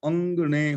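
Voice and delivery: ਅੰਗਣੇ with a clearly sounded g after the nasal; hard g. Shown as a demonstration. Teacher asking listeners to listen closely, wrong hard-g ਅੰਗਣੇ. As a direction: say ਅੰਗਣੇ as ang-gne, g audible. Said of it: "ਹੁਣ ਗੱਗਾ ਬੋਲ ਰਿਹਾ ਹੈ".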